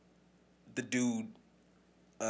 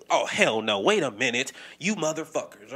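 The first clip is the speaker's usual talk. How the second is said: louder, indignant burst; mock outrage; 2 semitones higher, 7 dB louder than usual. Voicing the LGBTQ community's anger, loud mock outrage. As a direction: bark it like an offended crowd. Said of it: "and they're like".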